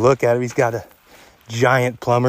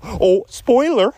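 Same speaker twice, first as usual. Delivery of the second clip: mock surprise; 10 semitones higher, much slower than usual. Lets slip a hunting result.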